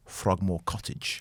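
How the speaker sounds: a slow, slipped-in Scottish lilt; Scottish accent. Real, not acted. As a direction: drift into a Scottish accent on the name. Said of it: "I don't know why I said it with a Scottish accent".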